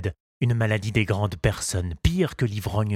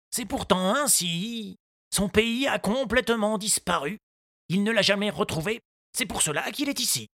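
grieving gardener; 12 semitones higher than usual. A narrator's reading. Moustache recalls his ruined garden, sorrowful. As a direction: let the loss weigh.

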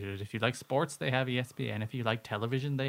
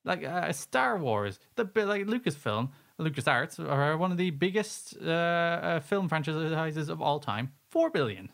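worked-up, disbelieving rant; mini rant; 3 semitones higher than usual. Real, not acted. Cohost comparing franchise prices, ranting. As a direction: rant in mounting disbelief, stretching the key figures. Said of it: "Mini rant over".

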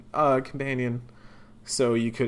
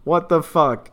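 loud, high burst of frustration; exasperated; 6 semitones higher, 10 dB louder, slower than usual. Real, not acted. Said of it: "I'm so frustrated".

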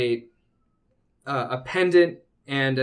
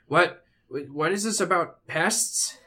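lightly voiced robed man; 4 semitones higher than usual. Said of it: "and he says".

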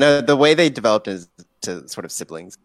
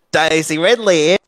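higher, hammed-up Australian accent; mock Aussie accent; 4 semitones higher, 4 dB louder than usual. Shown as a demonstration. Co-host prompting Charlie with the catchphrase, mock Aussie accent. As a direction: show off a put-on Aussie twang.

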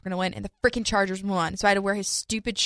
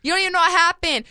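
retold snap at mom; 9 semitones higher, 5 dB louder, faster than usual. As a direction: drag out shut up at mom. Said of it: "And I'm just like".

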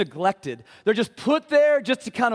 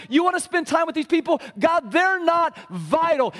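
rising, sneering accuser, higher and higher; mock God with mounting scorn; an accuser's taunt climbing in pitch; taunting enemy; 6 semitones higher than usual.

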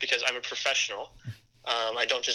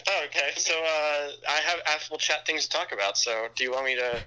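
on speakerphone. Real, not acted. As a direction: voice over a phone speaker. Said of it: "I've got you on speaker".

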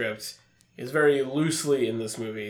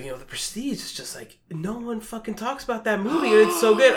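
cop voice; 7 semitones higher than usual. Retold or imitated. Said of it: "a hell of a cop voice that you're doing".

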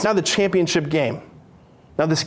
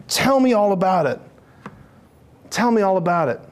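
warm father. Acted. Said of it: "that's the Father".

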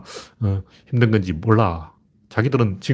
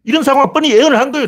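high, heated rhetorical challenge; indignant vindication; 10 semitones higher, 4 dB louder than usual. Real, not acted. Commentator demanding who was right, indignant vindication. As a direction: drive each question home as an accusation. Demands credit for his warning.

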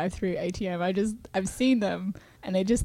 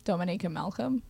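own Australian accent; 7 dB quieter than usual. Shown as a demonstration. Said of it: "Say, say your name".

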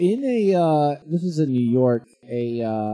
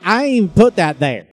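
mock redneck woman; 6 semitones higher, 10 dB louder than usual. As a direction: play up a rural New York woman loudly. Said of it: "why I think she sounds like that".

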